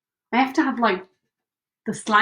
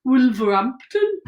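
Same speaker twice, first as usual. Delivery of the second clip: Wolverhampton Brummie accent, drawn-out place names; 3 dB louder, slower than usual. Shown as a demonstration. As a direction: put on a Black Country Brummie accent. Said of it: "Wolverhampton Brummie".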